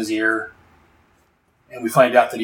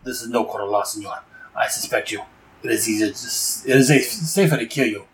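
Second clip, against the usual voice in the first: cold threat. Retold or imitated. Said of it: "Cujo's like".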